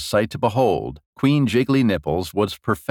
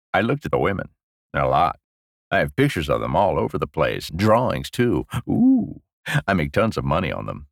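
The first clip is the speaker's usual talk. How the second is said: put-on gleeful old lecher; 4 semitones lower than usual. Old prisoner boasting of his crime, mildly gleeful. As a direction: confess low and quick, relishing it. Parfait's character voice.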